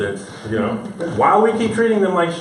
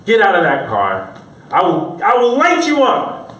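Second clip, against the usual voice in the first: mock cop threat; 5 semitones higher, 3 dB louder than usual.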